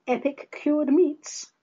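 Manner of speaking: slow mock-childish punchline; schoolkid joke. School nickname for Epicurus, lightly childish voice. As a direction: say it like a ten-year-old proud of the pun. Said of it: "as we called him at school".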